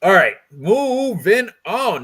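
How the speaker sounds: high, slow, loud singsong; sing-song segue. Real, not acted. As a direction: stretch it out musically to change topic. Sing-song move to next fight.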